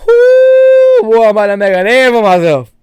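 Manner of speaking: loud, high-pitched whoop into a mock Cajun accent; Gambit's fake Cajun accent. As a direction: crow it in a hammed-up Cajun accent. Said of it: "puts on a dumb fake accent".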